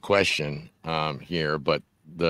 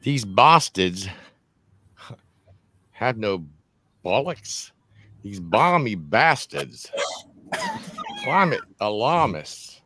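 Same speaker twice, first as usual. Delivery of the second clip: put-on British accent, higher and drawn out; 5 semitones higher than usual. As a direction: read it in your best mock British accent. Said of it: "in your best British accent".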